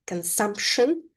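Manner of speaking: "consumption" with the P left out; silent P in consumption. Shown as a demonstration. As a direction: say "consumption" without sounding the P. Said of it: "letter P is not pronounced in this word".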